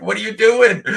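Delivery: very high, put-on shocked Oh my God; horrified parent. Parent seeing a Sharpie on the sofa, high shocked squeal. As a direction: squeal it like you just saw the damage. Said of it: "you're like".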